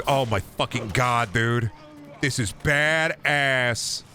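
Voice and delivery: slow, dragged-out awe of an impressed bro; mock stoked gamer dude. Mocking the game's target buyer as a slow, impressed gamer bro. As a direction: stretch out the words like a bro blown away. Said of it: "rents this game from Blockbuster and goes".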